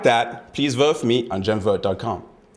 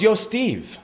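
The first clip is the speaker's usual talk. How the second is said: tag; 11 semitones higher than usual. Acted. Calls a man over at party.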